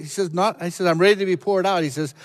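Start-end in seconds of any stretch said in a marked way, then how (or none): 0.9-1.8 high, loud fervent declaration; fervent preaching. Acted. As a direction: proclaim it with rising fervor. Preacher rising in fervor.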